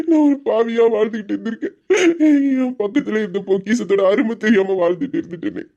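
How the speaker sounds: broken, weeping confession; tearful regret. Acted. Husband confesses regret about his wife, weeping. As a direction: choke out the guilt.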